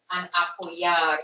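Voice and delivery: apoyar said very slowly, final R sounded; slow careful pronunciation. Shown as a demonstration. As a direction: apoyar drawn out down to the last R. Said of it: "remember to pronounce this, this word all the way down to the end".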